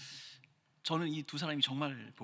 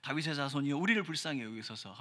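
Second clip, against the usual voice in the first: a run-on plea, a little more forceful; emotional cry; 3 semitones lower than usual. Shown as a demonstration. Preacher showing the congregation how to call out to Jesus, emotional cry. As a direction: read it like a line of drama, crying out. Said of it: "큰 감정을 좀 넣어서".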